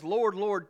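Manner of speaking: insistent double "Lord"; emphatic double Lord. Shown as a demonstration. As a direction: cry out "Lord, Lord" as a fervent declaration. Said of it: "twice was emphasis".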